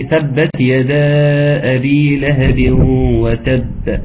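slow drawn-out tajweed chant; Quran recitation. Shown as a demonstration. Teacher reciting Sura Maryam to students, slow chanted recitation. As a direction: recite slowly, stretching the vowels. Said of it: "أو أطلع قوة".

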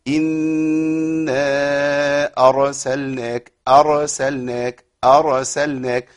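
أرسلناك with the R shaken and trilled; wrong rolled R. Shown as a demonstration. Teacher showing the class the wrong trilled R. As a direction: roll the R in أرسلناك too long. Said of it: "خطأ تاني إن أنا أهز الراء".

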